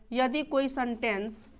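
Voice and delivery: slow, soft dictation pace. Shown as a demonstration. Teacher dictates the rule to students, slow and soft. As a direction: read it out slowly so they can write. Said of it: "लिखो".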